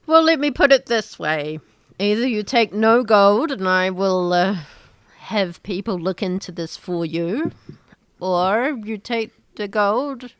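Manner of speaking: loud, firm offer of terms; firm governor. Acted. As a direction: lay down the deal firmly. Governor setting terms firmly.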